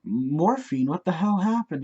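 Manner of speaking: shocked question. Retold or imitated. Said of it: "We're like".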